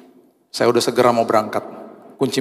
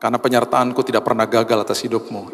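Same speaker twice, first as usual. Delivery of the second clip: gentle voice of God. Retold or imitated. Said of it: "Tuhan juga tegur saya".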